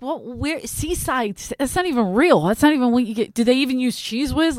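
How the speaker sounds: rapid-fire disbelief, acted out; retold hood mode. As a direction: imitate an indignant friend turning tough. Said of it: "she went into hood mode".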